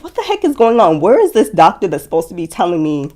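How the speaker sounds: retold fed-up questioning, hurried toward the end; exasperated retelling. Waiting patient wondering where the doctor is, exasperated.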